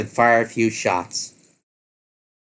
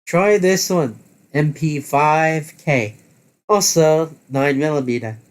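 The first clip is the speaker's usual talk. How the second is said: lightly voiced character, pitched higher; gun-savvy crew member; 4 semitones higher, slower than usual. Hane hands the player a submachine gun, lightly raised character voice. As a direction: show it off in a slightly raised character voice.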